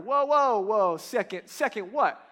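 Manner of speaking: imitated stunned objection; mock shock. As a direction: act out a crowd thrown off balance. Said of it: "was outrageous and, and shocking".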